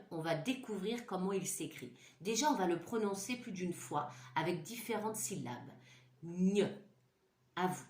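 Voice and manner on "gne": "Gne" said crisp and louder; "Gne" clear and alone; model sound. Shown as a demonstration. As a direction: model it for children to repeat. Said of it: "Vous répétez après moi".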